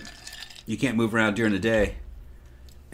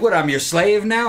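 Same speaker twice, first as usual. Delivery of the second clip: higher, louder mock outrage; outraged disbelief; 8 semitones higher, 6 dB louder than usual. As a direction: toss it back in retold indignation. Retelling vampire's outraged question.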